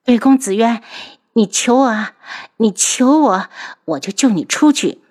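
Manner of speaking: hateful taunt. Acted. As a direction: smile while you twist the knife. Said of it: "笑容里却带着恨意". (带着恨意的挑衅，声音偏高偏响)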